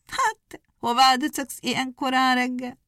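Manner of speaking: high, scornful hare asking; mocking. A narrator's reading. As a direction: look down on the hedgehog as you ask. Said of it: "csak azt kérdi nagy gúnyosan".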